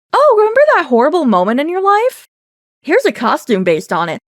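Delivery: high, bright mock announcement; chirpy fake-friendly company voice; mock cheerful dev voice.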